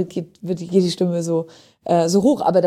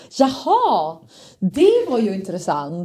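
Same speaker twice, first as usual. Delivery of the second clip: Swedish melody; slower than usual. Shown as a demonstration. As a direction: show off melodic Swedish intonation. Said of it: "auf Schwedisch würdest du sagen so". (melodisches Schwedisch)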